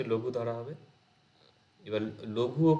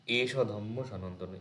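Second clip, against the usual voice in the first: verse recitation; slower than usual. Shown as a demonstration. Recites verse line again.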